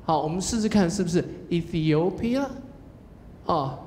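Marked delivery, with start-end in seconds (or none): 1.5-2.4 "Ethiopia" asked as a question, rising on "o"; rising on the stressed syllable. Shown as a demonstration. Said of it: "重音的地方拉高哦".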